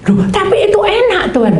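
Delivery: put-on high, loud childish whine; whiny protest. Servant whines to God that rice is tasty, high whine.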